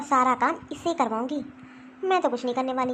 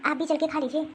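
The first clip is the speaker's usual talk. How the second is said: puzzled daughter-in-law; 3 semitones higher than usual. Acted. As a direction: wonder aloud why she is scolded.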